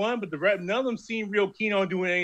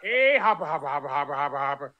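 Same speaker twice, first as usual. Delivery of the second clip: pretend yell; 3 semitones higher than usual. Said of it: "go outside and yell".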